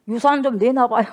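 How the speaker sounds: cheeky demand. Retold or imitated. Younger son demanding his inheritance, cheeky and loud. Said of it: "건방지게 찾아오면".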